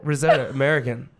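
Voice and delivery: put-on American pronunciation of risotto; demonstrating an American accent. Shown as a demonstration. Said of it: "in my American accent".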